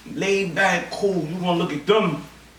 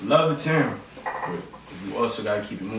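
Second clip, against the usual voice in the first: put-on deep old man voice; 13 semitones lower, 5 dB quieter than usual. Elder voice continues.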